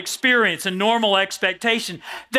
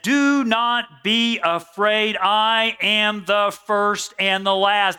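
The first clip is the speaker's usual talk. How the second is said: very slow, solemn words of Jesus; slow scripture reading; slower than usual. Acted. Preacher voicing Jesus to John, very slow and solemn. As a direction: draw out each word with weight.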